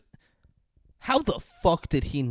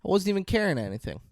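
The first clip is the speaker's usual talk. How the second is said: imitating crying; 6 semitones higher, faster than usual. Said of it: "she starts crying and she's like".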